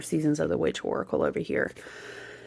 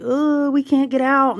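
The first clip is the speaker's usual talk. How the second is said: spooky ghost voice; 8 semitones higher, 5 dB louder than usual. Retold or imitated. Haunted Mansion ride spooky voice.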